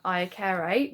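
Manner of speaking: "iacere" said carefully as a Latin word, each syllable sounded out; Latin pronunciation. Shown as a demonstration. Teacher tries the Latin root "iacere" for pupils, careful pronunciation. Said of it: "I'm not sure how to say this properly".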